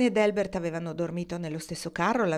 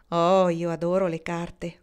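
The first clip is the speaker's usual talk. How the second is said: simply; 5 dB louder, slower than usual. Acted. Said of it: "disse Marnie con semplicità".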